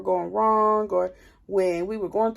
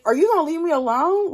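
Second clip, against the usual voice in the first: incredulous yell; 8 semitones higher, 5 dB louder, faster than usual. Retold or imitated. Repeating the same incredulous quote.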